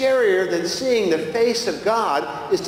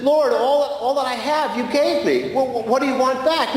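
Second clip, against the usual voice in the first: pleading Graham; 6 semitones higher than usual. Retold or imitated. Graham pleads with Jesus in dream.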